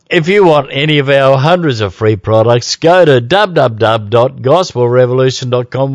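ordinary talk

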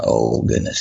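the words fall as fear sinks in; low, stunned dread; hushed dread. Retold or imitated. Realizing his wife is unwell.

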